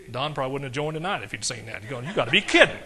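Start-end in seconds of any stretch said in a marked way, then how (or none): 2.0-2.8 loud, laughing exclamation; mock disbelief. Preacher imagining Don's reaction to his jail picture, incredulous. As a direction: burst out incredulous, half laughing.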